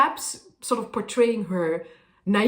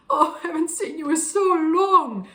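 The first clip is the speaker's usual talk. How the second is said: dark, sad; 8 semitones higher, 4 dB louder than usual. Shown as a demonstration. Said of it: "It's a very dark sort of sound".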